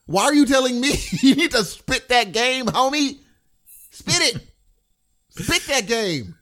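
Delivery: cracking up mid-quote, real laugh; laughing through it. Real, not acted. Dad laughing as he tells the suitor to make his move.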